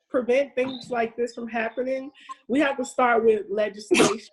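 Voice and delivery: talking around a retainer; retainer in mouth. Real, not acted. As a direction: speak with a retainer in. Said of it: "I have my retainer in my mouth".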